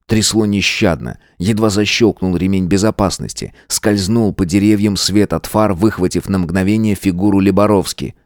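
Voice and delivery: ordinary delivery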